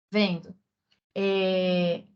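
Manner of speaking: ordinary talk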